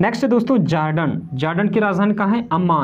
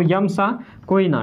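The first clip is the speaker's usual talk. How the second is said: slow, spelled-out mnemonic; slower than usual. Shown as a demonstration. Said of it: "slow mnemonic repeat".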